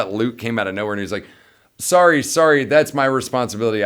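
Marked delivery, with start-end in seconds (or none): 1.8-3.8 hurried apology. Retold or imitated. Luke apologizing to cleaners.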